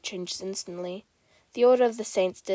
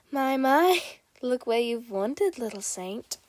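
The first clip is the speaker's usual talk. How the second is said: playful menace; 3 semitones higher than usual. Acted. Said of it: "A low voice cuts through".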